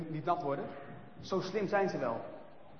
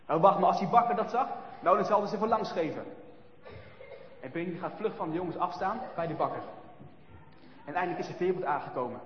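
plain reading voice

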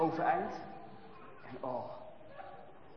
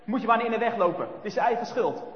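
mocking bully voice, a bit louder; mean laughing boys; 2 semitones higher, 5 dB louder than usual. Bullies mocking the boy they pushed, jeering. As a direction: sneer and laugh at the little one. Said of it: "hoort hij gemeen lachen".

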